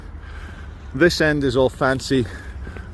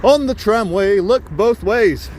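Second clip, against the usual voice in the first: slow safety instruction; 7 semitones higher, 4 dB louder, slower than usual. Shown as a demonstration. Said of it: "first of all, guys".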